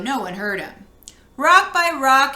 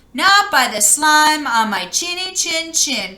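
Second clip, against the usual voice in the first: defiant cry; 4 semitones higher, 4 dB louder than usual. Acted. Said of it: "cried Nickowitz".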